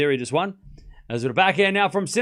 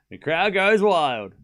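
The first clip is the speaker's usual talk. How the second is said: slower, louder hammed-up crowd call; mock announcer; 4 semitones higher, 5 dB louder, slower than usual. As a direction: ham it up like a TV commentator.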